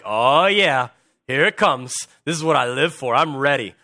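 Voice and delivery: mock eagerness with a loud opening; relishing the fight. Someone who enjoys confronting spots a different view, eager relish. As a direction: lightly act out someone itching for confrontation.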